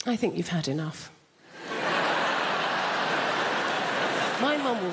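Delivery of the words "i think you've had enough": prim English mum. Retold or imitated. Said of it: "conversation with mum's more like this".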